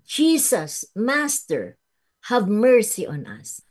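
a loud, high plea from the lowly; humble cry for mercy. Retold or imitated. Preacher voicing lepers humbly begging Jesus, loud plea. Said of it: "sabi po nung mga ketongin".

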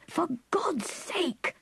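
slow, high breathy cry of fear; terrified cry. A narrator's reading. Clifford as the chair lurches, crying in terror. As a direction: gasp it out as the chair reels. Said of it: "cried Clifford in terror".

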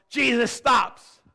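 loud, high, drawn-out proclamation; big preacher's shout at the turning point; dramatic climax. Real, not acted. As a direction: punch both words slowly and loudly.

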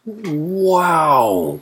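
high, drawn-out whoop sliding down; delighted whoop. A narrator's reading. Wasp finds watermelon, whooping with delight. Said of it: "whooped the wasp".

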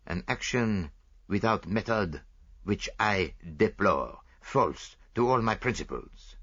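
put-on fussy Belgian detective, lightly French-accented; lightly voiced proud Belgian sleuth; Poirot voice. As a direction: play the vain little detective sure of himself. Poirot explains the powder.

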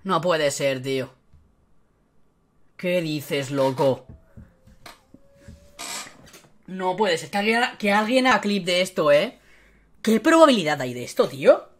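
low, hushed, deflated voice; stunned disbelief. Real, not acted. Streamer stares at a duplicate Cruyff, stunned and hushed. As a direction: say it quietly with long stunned silences.

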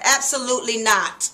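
mother putting her foot down, stress on Absolutely. Shown as a demonstration. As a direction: Absolutely hit hard and loud, falling to a firm stop. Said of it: "That is emphasis".

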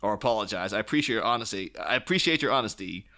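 lightly voiced mock politeness with a sarcastic edge; a hint of a snide businessman. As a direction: read it as fake courtesy, dripping irony. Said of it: "he kind of sarcastically says".

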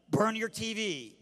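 slow, blunt mock-counselor order; blunt advice. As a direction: lay down the verdict slowly. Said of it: "I'm just real blunt".

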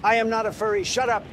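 defensive denial. Acted. Denying being a furry.

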